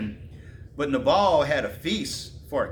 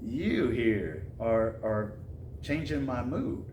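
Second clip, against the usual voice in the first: mock calming David; 3 semitones lower, 6 dB quieter, slower than usual. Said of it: "David's like".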